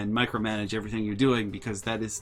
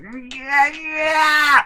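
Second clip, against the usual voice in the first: higher, tight angry yeah; furious yes; 13 semitones higher, 5 dB louder than usual. Retold or imitated. Mom seething at our offer to help. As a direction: spit out yeah through rage.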